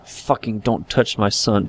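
slow, soft menacing threat; quiet menace. Acted. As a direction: hold the fury down, slow and quiet. Threat heard over the child.

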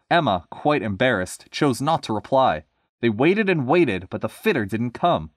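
lively storybook reading; story narration. A narrator's reading. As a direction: read it to listeners with a measured lilt. Reads story aloud.

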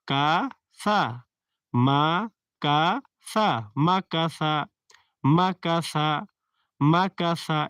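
মাকাসা drawn out slowly, long a vowels; আকার টেনে পড়া; recitation demo. Shown as a demonstration. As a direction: chant মাকাসা syllable by syllable. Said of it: "প্রত্যেকটা আকার দেওয়া আছে".

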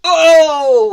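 loud, high cry of "oh"; sudden high-pitched outcry; pained yelp. Acted. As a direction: yelp as if bitten all over. Leopard bitten by termites cries out.

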